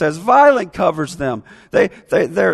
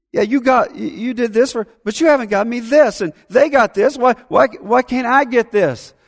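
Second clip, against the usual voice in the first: put-on higher, louder whiny child complaining; jealous child; 5 semitones higher, 3 dB louder than usual. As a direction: whine that the others got more. Voicing envious complaining child.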